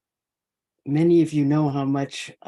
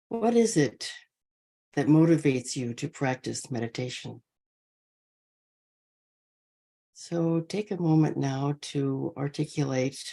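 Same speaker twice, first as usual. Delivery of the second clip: measured meditation guidance with long pauses between phrases; guided meditation; 4 dB quieter than usual. Real, not acted. Teacher easing an online sangha into posture, guided meditation. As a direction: settle the group gently, leaving space after each phrase.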